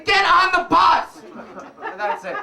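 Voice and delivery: high, slow, laughing finish. Real, not acted. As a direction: wrap it up chuckling.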